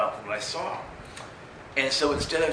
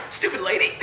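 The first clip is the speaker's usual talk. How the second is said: scornful aside; 5 semitones higher than usual. Retold or imitated. Reacting to the lady's death.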